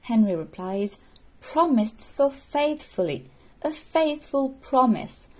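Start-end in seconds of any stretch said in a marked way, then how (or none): 1.4-5.3 slow, higher-pitched questioning of her words; puzzled echo. Acted. Henry picking apart Catherine's faithful promise, puzzled echo. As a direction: repeat it slowly, as if puzzling over it.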